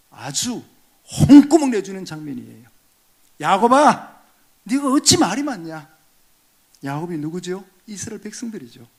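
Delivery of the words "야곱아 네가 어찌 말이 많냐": voicing God. God rebuking Jacob in sermon.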